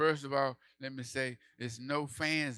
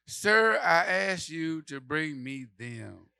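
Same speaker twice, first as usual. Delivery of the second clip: high, loud call at the pastor; mock yell; 5 semitones higher, 7 dB louder, slower than usual. Comedian yelling at the pastor for a chair. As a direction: bark it out slowly, high and loud.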